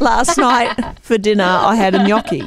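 measured sentence with gnocchi as "nyocky"; without Italian accent. Shown as a demonstration. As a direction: demonstrate gnocchi, NYOK-ee, in your own accent. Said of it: "Try without an Italian accent".

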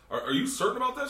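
squeaky high mock agent voice; mock gate agent. Gate agent doubting the nervous passenger, mock high-pitched voice. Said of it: "they were like".

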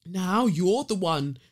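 lightly imitated Scouse man; a hint of a Scouse retort; Scouse accent. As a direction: quote him with a touch of Scouse. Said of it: "he says in his Scouse accent".

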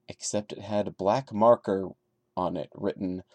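steady storyteller read of a first-person horror tale; story narration. A narrator's reading. Reading a creepypasta aloud to viewers, calm narration. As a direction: tell it like a campfire creepypasta, calm and measured.

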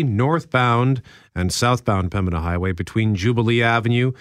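measured radio news read; newsreader voice. Shown as a demonstration. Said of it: "in your masterful newsreader voice".

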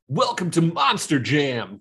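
lightly hyped arena announcer; a touch of monster truck rally hype; exciting event announcer. Shown as a demonstration. Co-host demonstrating his announcer to the host, lightly excited announcer voice. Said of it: "That was the exciting, like".

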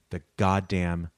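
low, soft, with long pauses; grave emphatic cursing. Real, not acted. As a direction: drop low and space the curse out. Slow, hushed swearing about the virus.

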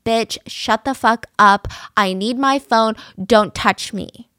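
slow, loud mock screaming of threats and demands; imitating her screaming. Retelling the girlfriend's rant in a slow, loud mock scream. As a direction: bark each demand out, drawn out and loud. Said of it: "and she said".

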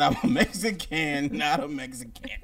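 lightly voiced Mexican accent; a hint of a Mexican accent on Mexican. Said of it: "She had the accent".

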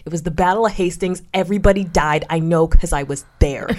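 loud proud announcement; loud declaration. Retold or imitated. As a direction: declare it boldly to the class. Acted stoned answer in class.

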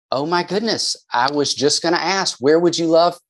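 mock-offended, high-pitched explanation; taken-aback mom. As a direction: protest like a mom startled by her son's yell. Mom reacts to son's yelled reply.

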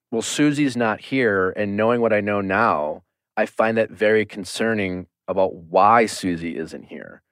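calm, measured imitation; Gabby, very calm. Contestant questioning the lead about a missing rival, very calmly. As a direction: raise the concern with understated calm. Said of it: "very calmly said".

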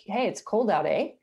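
"eh?" tagged on the end as a question; confirming eh. Shown as a demonstration. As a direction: seek agreement with a closing "eh?". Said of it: "a confirmation type word".

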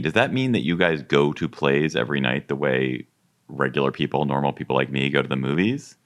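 normal talking voice

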